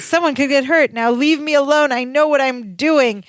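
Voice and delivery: a touch of exasperated warning; mild agitation. Retold or imitated. Retelling Larry being tickled with a gun, mild agitation.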